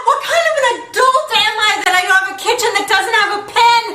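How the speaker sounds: high loud cries breaking into laughter; frantic laughing panic. Real, not acted. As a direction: panic so hard it turns to laughing. Grabbing wrong things, panicking.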